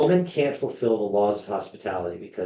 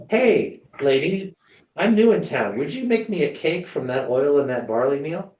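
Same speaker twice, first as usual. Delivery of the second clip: higher, louder hail to a passer-by; calling to a stranger; 5 semitones higher, 4 dB louder than usual. Retold or imitated. Elijah asks a passing widow for cake, calling out high. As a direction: call out with a bold, high-pitched request.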